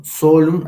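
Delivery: "Solum" with the O held long. Shown as a demonstration. Teacher showing Latin vowel length, long O in "Solum". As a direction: stretch the first vowel of "Solum" like a double O. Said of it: "aquí la O sería larga".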